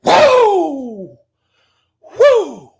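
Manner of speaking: shouted wrestling promo, hammed-up; Ric Flair promo. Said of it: "do the Ric Flair".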